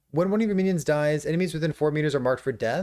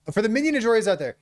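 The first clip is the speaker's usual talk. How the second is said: quick, higher, hyped-up shout-out; fast and hyped; 5 semitones higher, faster than usual. Shown as a demonstration. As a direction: rattle it off with excitement.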